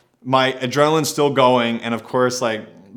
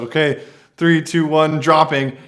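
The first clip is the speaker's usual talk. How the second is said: louder, higher countdown to psych himself up; pumped-up countdown; 4 semitones higher, 5 dB louder than usual. Retold or imitated. Counting himself in before dropping off the roof, called out loud and high. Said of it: "and I'm just like".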